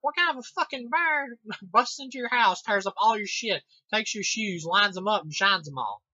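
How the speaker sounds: high, loud disbelieving outburst with a laugh; mock incredulous rant. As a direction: rant at the dumb line in disbelief. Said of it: "And I'm like".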